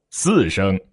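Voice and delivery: both syllables kept down; low key. Shown as a demonstration. Teacher alternating keys for students, low key. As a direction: drop back to a low key. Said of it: "我不管说".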